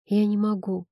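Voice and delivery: ordinary delivery, nothing marked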